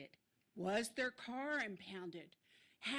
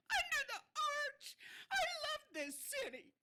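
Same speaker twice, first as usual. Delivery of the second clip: voice breaking. Real, not acted. Public comment, emotional outburst.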